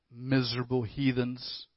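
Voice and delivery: soft, low grumble under the breath; muttered. Acted. Snubbed donkey muttering about the townspeople, soft and low. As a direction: sulk it out quietly. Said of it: "he mutters under his breath".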